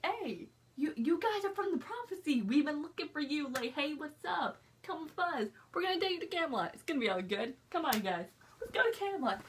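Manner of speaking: a hint of a chummy king inviting everyone along; King Arthur. Voicing King Arthur's friendly welcome.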